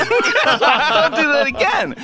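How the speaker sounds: high, drawn-out angry retort; angry outburst. Retold or imitated. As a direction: retell a helpless outburst, high and slow. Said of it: "I'm just angry".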